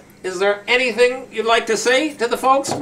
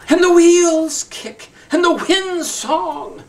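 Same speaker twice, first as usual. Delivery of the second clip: whispered; 8 semitones higher, slower than usual. Acted. Dramatic poem recital.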